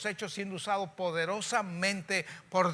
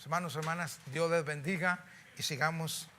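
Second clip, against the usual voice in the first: closing prayer. Real, not acted. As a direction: pray over the congregation, humbly.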